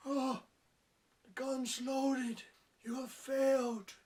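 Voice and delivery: high, slow, drawn-out mentor voice; lightly hammed-up stern trainer; mock blind man. Reviewer voicing the blind man scolding her, slow and mock-stern.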